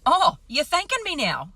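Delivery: loud, high mock-incredulous husband; husband reacting to being thanked, loud and high; amused husband. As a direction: imitate him scoffing in disbelief. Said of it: "And he's like".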